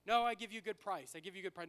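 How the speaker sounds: put-on insistent driver in broken English accent. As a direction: push the good price in broken English accent. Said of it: "in his broken English".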